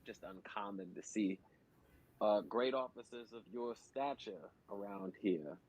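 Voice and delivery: laying it on thick, slowly; slow flattering voice. Acted. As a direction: sweet-talk the guard slowly. Flattering the guards in character.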